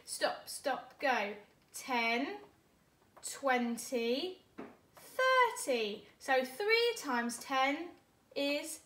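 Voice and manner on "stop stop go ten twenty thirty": counting in tens. Shown as a demonstration. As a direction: call out each ten. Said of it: "Are we ready?".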